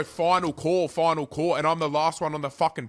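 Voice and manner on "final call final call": mocking the gate call, louder; exaggerated final call announcement; imitating gate staff calling final call; mock announcer. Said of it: "and you go".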